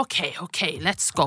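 soft resigned okay; calm relief. Retold or imitated. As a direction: say it quietly, resigned. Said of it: "Jeg bare".

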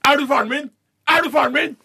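put-on high, loud baby shriek; high screechy baby voice; screaming newborn. A narrator's reading. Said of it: "og skriker".

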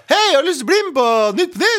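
high, hammed-up TV invitation; Kjetil Koiman. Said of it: "Kjetil Koiman som sa". (høy, overdrevet etterligning av en invitasjon)

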